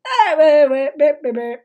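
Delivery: loud rapid wait wait wait; urgent stop. Real, not acted. Streamer halting the clip in disbelief, loud urgent stop. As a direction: cut in loudly to stop everything.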